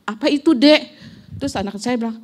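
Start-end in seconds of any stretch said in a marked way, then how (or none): 0.1-0.9 put-on a sudden alarmed call to her child; startled cry. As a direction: cry out in shock while braking. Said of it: "Sampai saya berteriak".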